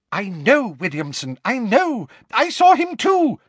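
high, loud panicked babble; gibbering. Acted. Flustered minister agrees with Williamson, high gibbering. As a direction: gabble it out in a fluster. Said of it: "gibbered Fudge".

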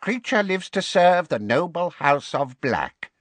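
high, awed house-elf voice; creaky little elf, wondering aloud; Kreacher. A narrator's reading.

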